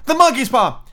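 high, loud frantic exclamation; wild cry. A narrator's reading. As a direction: burst out wildly at the top of the range. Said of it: "she cried wildly".

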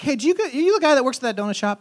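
high-pitched, re-enacted hail to a stranger; calling out. Pastor to man at bus stop from car window, calling out.

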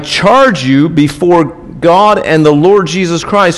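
measured pulpit reading of scripture. Acted. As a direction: read it like a solemn charge. Reads scripture aloud.

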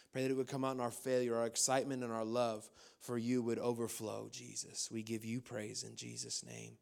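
earnest, steady prayer voice; pastor's prayer. Acted. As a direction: lead the church in prayer. Leads a prayer.

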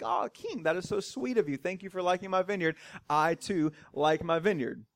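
softly voiced, mildly sweet reply; a hint of a flattered vineyard owner, kept soft; soft polite Naboth. Naboth answers the king's compliment, softly and politely.

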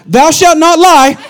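slow, stern preacher tone; husband mock-preaching to wife in the car; mock-biblical warning. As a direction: scold her like reading commandments, slowly.

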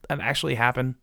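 ordinary talk

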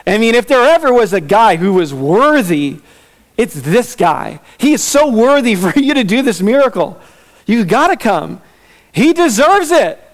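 hammed-up pitch for the good guy; eager pleading. Leaders urging Jesus to come, mock eager pleading. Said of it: "they're like".

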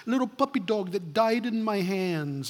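lightly imitated Georgia salesman, sentimental; a hint of Georgia accent; mock Georgia accent. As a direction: tell the sad puppy tale like a Southern closer from Georgia. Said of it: "sounded like he was from Georgia".

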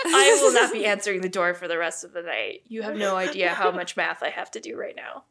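lightly put-on accent, starting loud; Caroline's put-on accent. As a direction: complain with a laugh in an invented accent. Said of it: "what this accent is I've decided on for Caroline".

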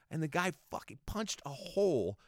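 ordinary talk, nothing marked

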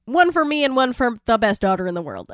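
lightly voiced boastful dad; mock proud dad. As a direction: show off like a doting father. Satan ordering drinks, retold.

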